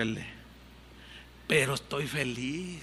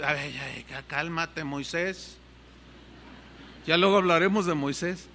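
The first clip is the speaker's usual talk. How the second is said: soothing wife. Retold or imitated. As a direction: gently settle him down. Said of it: "me dice".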